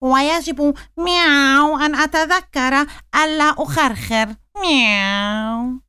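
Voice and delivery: meowing cat. Acted. Cat meows between words.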